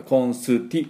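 コンスティ with a full "su" in the middle; added U. Shown as a demonstration. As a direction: draw コンスティ out as kon-suu-tii. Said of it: "U を入れると違う音に".

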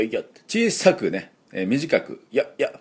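tiny, short "よ" sounds; quick little "よ"; small short "よ". Shown as a demonstration.

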